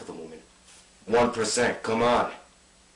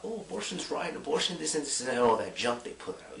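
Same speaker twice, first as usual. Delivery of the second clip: higher mocking imitation of news chatter; mock the media's prattle in a higher voice; mimicked media chatter; 5 semitones higher than usual. Activist parodies the news about abortion, mock chatter.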